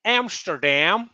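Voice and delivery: drawn-out, high, loud mock Dutch accent. Back from Amsterdam, showing off his mock Dutch accent. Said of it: "in my best Dutch accent".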